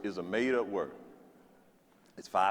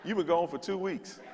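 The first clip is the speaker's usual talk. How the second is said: incredulous laugh; 5 semitones higher, 3 dB quieter than usual. Retold or imitated. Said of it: "I used to be like".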